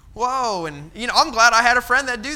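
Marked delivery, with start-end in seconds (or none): 0.1-0.7 startled whoa. Retold or imitated. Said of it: "I was like".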